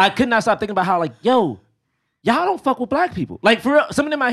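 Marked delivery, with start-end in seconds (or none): 0.0-1.6 laughing. Real, not acted.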